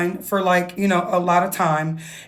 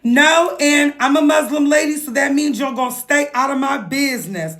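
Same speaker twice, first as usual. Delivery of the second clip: put-on New York accent; 5 semitones higher than usual. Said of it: "full New York accent".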